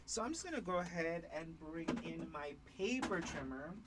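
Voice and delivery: speaking toward the floor, a bit muffled; face down on the floor. Real, not acted. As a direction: talk down into the floor. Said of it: "Doesn't help that I'm speaking to the floor".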